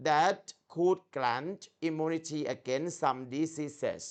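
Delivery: very slow, careful textbook read-aloud; slow English reading demo for the student; model reading. Shown as a demonstration. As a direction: read it like a native textbook, word by word. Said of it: "เอาจะอ่านให้ดูเหมือนตำราฝรั่งเลย".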